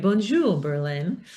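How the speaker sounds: a warm, friendly greeting with "Bonjour" lifted high; friendly, going high. Shown as a demonstration. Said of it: "Her friendly tone creates intimacy ... It kinda goes high".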